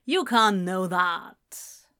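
slow, mildly placating; soothing. A narrator's reading. Rejected friend doubts his certainty, soothing. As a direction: ease him down, slowly. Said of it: "Gabriel tried to soothe".

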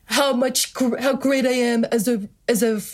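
a mild, pursed-lip Trump brag; Donald Trump impression. Friend doing Trump on request, light hyperbolic boast. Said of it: "I do do a decent Donald Trump".

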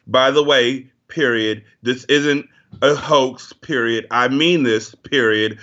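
hammed-up letter dictation, each line ending in a dull period; slow mock dictation with a flat period after each line; mock letter reading. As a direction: read a petty letter aloud, slowly, deadpan. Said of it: "It was basically like".

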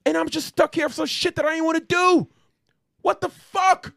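high, loud ranting screech; mock furious rant. Michelangelo yelling at his dead brothers, hammed-up screeching rage. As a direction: scream it all at the brothers.

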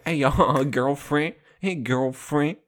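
playful mock-sassy greeting; lightly hammed-up sass. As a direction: imitate someone sassy calling a girlfriend. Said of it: "I wanna be a sassy straight man".

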